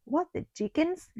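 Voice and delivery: high shocked squeak; gasping bees. A narrator's reading. Little bees shocked by Amelia's news, gasping. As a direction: gasp in disbelief. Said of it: "gasped all the little bees".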